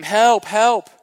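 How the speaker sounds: put-on high, loud childlike cry for help; retold scream. Two boys in the water scream for their uncle to help. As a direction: shout help like a drowning kid. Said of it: "And we scream, scream".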